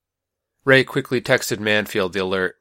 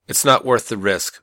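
firm declaration; 2 semitones higher, 4 dB louder than usual. Acted. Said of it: "Manfield declared".

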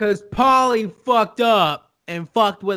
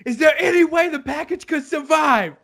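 lightly voiced Tony; 8 semitones higher than usual. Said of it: "Tony's like".

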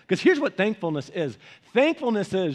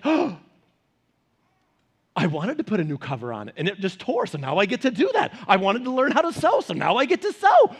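gasp, then rising, brighter mock wife voice; husband voicing wife turning a broken couch into joy; imitating his wife. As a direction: find the upside, lightly hammed. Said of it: "my voice for her".

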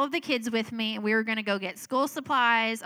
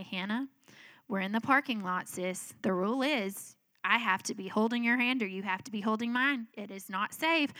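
very calmly; 3 dB quieter than usual. Retold or imitated. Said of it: "And I'm very calmly".

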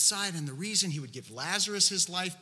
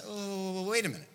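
acted incredulous objection; 2 semitones higher than usual. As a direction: object in mild mock disbelief. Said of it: "the next thought of the religious leaders was probably something like this".

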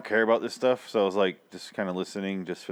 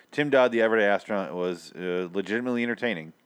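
hoarse voice. Real, not acted. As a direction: voice worn out and rasping. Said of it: "my voice is gone".

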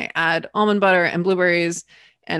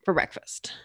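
quicker coach quote; faster than usual. Retold or imitated. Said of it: "So she said".

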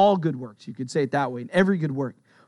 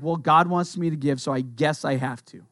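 grudging obligation; 3 semitones lower than usual. Acted. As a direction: give in as if obliged. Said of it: "should not be done under compulsion".

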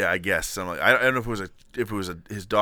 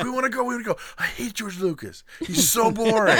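put-on whiny kid voice; 10 semitones higher than usual.

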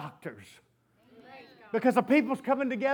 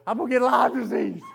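laughing panic; 5 dB louder than usual. Retold or imitated. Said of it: "I'm thinking".

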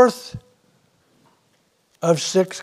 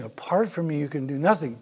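"Apart from me" eased down and softer; quiet; 6 dB quieter, faster than usual. Shown as a demonstration. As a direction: drop back and let it land gently. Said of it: "that's what Jesus was saying".

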